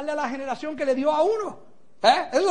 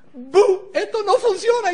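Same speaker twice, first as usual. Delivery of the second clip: higher-pitched naysayer jeer; mock jeering; 4 semitones higher, 3 dB louder, slower than usual. Naysayers to a business newcomer, mock jeering. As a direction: boo it like a scoffer.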